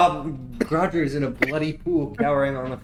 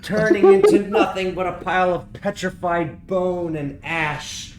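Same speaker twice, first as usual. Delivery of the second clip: dramatic narration; 5 semitones higher, 5 dB louder than usual. A narrator's reading. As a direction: tell the ape's end like an epic. GM narrates the ape's death.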